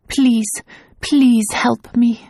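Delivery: drawn-out frightened please. Acted. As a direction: plead for help in terror. Woman pleading in nightmare.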